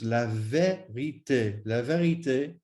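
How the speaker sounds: "vérité" with clear closed é vowels; French é sound. Shown as a demonstration. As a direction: say "vérité" with each accented e sounded as ay. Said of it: "But with the accents".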